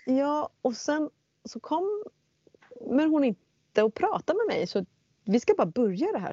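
fighting back tears as she retells it; upset, voice breaking. Real, not acted. Telling the listener about the priestess, close to crying. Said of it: "nu känner jag att jag blir så här upprörd".

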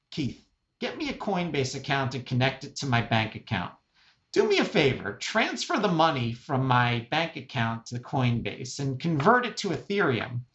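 lightly voiced old mother giving orders; a hint of a demanding eighty-year-old mom; imitating elderly mom. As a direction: playfully imitate mom asking for a favor. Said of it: "my eighty-year-old mom says the following".

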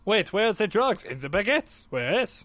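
puzzled mock Frenchman; French accent. French mobster asking after the drugs, mock French accent. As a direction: ask it with a put-on French accent. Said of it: "it's the French mafia".

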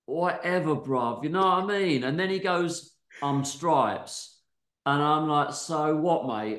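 put-on reading the story in a light London youth-slang accent; a hint of London street slang, read aloud; London youth speak. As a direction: give it a bash as a young Londoner, bruv. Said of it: "I reckon I can do youth speak".

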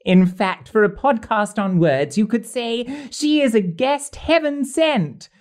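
theatrical rhyming verse recital; poem recital. Acted. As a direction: recite the couplets with a flourish. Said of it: "I've been busy authoring some rhyming couplets".

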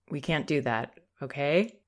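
soft, tentative no with a questioning "okay?"; unsure pleading no. Shown as a demonstration. Parent to toddler, hesitant and unsure. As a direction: ask for permission instead of setting the limit. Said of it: "That's not a confident response".

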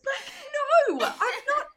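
high, loud mock disbelief; incredulous protest. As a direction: exclaim in baffled denial, half laughing. Retold baffled reply to mistaken Americans.

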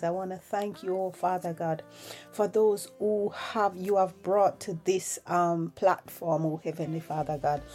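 soft, earnest spoken prayer. Acted. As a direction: pray quietly, hushed and sincere. Leads a prayer.

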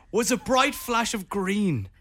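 dramatic slow voiceover reading; serious poem reading. Shown as a demonstration. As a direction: finish the poem solemnly. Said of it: "I try to be serious".

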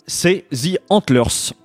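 The band name revealed slowly and high, like a big announcement; drawn-out reveal. Acted. Host unveiling his pick to co-host, slow high dramatic reveal.

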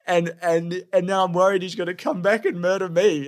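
imitating a hesitant schoolboy with slushy speech; odd kid's voice. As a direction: tell it like an odd little kid, haltingly. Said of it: "he kinda talked like this".

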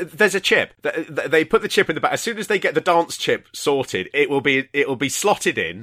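mock conspiracy. Mocking performance chip theory.

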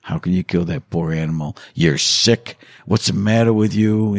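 usual speaking voice

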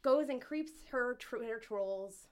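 talking with a slight lisp. Real, not acted. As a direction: let the lisp slip through. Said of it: "my lisp is coming through".

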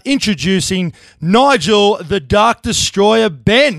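formal guest intro, building to the name; ring announcer introduction. Real, not acted.

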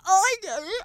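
hög, stark låtsaskränkt röst; gör narr av de kränkta med överdrivet ljust ojande; hånfullt härmad kränkthet. Retold or imitated. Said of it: "jättekränkta". (överspelat kränkt ojande)

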